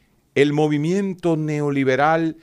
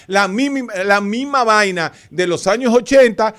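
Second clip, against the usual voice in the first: heated; 6 semitones higher than usual. Real, not acted. Heated argument on radio.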